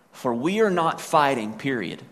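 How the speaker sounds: a hard period after "fighting"; full stop after fighting. Shown as a demonstration. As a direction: stop dead after "fighting" with a falling close. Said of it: "he didn't put a period there".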